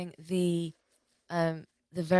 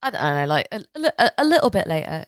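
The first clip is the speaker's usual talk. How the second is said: excited loud confession; 5 semitones higher, 8 dB louder than usual. Real, not acted.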